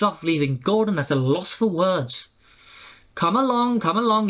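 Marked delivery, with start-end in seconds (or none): 3.1-4.3 high, chugging rhythm of come along; puffing engine. A narrator's reading. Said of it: "he puffed".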